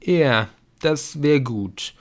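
half-there, drawn-out reply; drowsy murmur. A narrator's reading. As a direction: murmur it slowly, stretching the words. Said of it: "murmelte Viktor".

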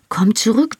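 1 cursing outburst. A narrator's reading. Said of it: "noch nie eine Frau so fluchen hören".

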